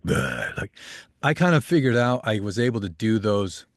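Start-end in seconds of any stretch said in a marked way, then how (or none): 0.0-0.5 low, guttural "bleh" growl; grumbly growl. Shown as a demonstration. Voice actor showing the extreme voice he could do, grumbly growl. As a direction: grumble out a short deep growl. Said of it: "big grumbly guy, like".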